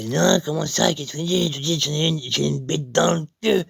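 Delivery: lightly voiced indignant gentleman; indignant man. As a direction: act out a man taken aback. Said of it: "Et monsieur, il me fait".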